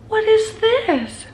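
slow, high, gasping disbelief; stunned. Real, not acted. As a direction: drag it out, amazed. Gasp then repeats question.

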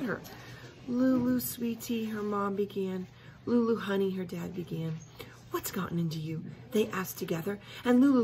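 lively read-aloud storytelling; story narration. A narrator's reading. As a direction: read it like a children's book. Reads a children's story aloud.

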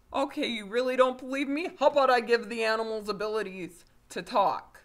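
loud, high-pitched acted outburst; hammed-up exasperated wizard; mock exasperated challenge. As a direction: challenge the doubter at full volume. Wizard challenges doubting dad in acted quarrel.

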